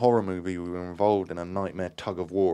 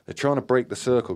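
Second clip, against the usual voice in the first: louder and higher urgent yell; yelled warning; 6 semitones higher, 8 dB louder than usual. A narrator's reading. Graham warns the séance circle, yelling. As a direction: raise the voice to warn everyone. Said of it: "Graham yelled".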